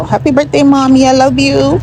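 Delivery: high, bright birthday greeting; cheerful birthday wish. Real, not acted. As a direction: call out happy birthday high. Birthday wishes to mommy.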